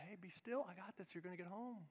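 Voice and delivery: very soft, gentle divine voice; barely above a breath, reassuring; hushed voice of the Lord; still small voice. Acted.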